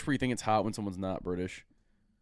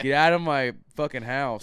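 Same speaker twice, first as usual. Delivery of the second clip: imitating his friend; 4 dB louder than usual. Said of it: "Is that my voice?".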